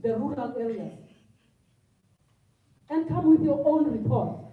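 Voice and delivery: emotional outburst. Real, not acted. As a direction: pour your frustration into it. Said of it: "I got a bit emotional".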